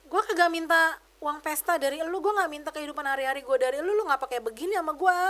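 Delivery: imitating her own angry comeback; indignant rant. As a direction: list what she never asked of her. Venting at abusive sister-in-law.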